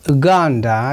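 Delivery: Uganda starting with short "oo", no y sound; Asian and African pronunciation. Shown as a demonstration. Teacher giving an example word, short-U Uganda. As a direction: say Uganda as "oo-GAN-da". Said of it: "as it's pronounced Uganda".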